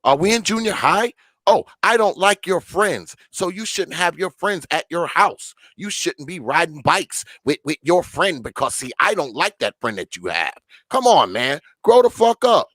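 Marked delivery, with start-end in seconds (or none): 1.5-10.6 lightly mocking a petty schoolkid, higher at first; hint of a juvenile playground grievance; childish mock complaint. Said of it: "fourteen-year-old granddaughter talks like this".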